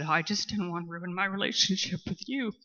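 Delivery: voice breaking. Real, not acted. AA speaker finishing her father's words, crying. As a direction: push the words out through real tears. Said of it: "now I'm gonna start crying".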